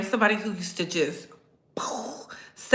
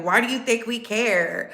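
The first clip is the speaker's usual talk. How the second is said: mocking troll voice. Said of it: "come in here and be like".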